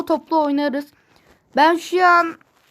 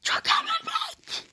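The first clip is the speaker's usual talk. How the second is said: high, slow mock wail; dramatic wail; 6 dB quieter, slower than usual. Losing the game, lament.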